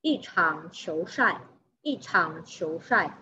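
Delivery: "Yi" with a falling fourth tone before "chang". Shown as a demonstration. Teacher modelling the ball-match example, falling-tone "Yi". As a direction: slowly model "Yi" falling, then "chang" dipping. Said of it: "i di sini sudah dibaca intonasi keempat".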